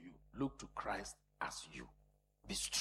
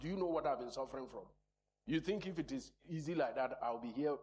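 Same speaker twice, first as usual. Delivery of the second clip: fast, higher, louder protest; voicing a sufferer; 4 semitones higher, 5 dB louder, faster than usual. The suffering woman protesting to the preacher, indignant. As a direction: rattle off the complaint of a long sufferer.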